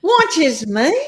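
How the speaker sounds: high incredulous question; disbelief. Retold or imitated. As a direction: still stunned, pitch it up. I was like.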